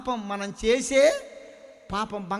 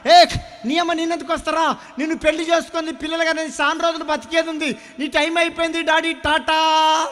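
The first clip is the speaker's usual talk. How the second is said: silver mocking the father; 7 semitones higher, 8 dB louder than usual. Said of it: "ఎండి అంటుందంట".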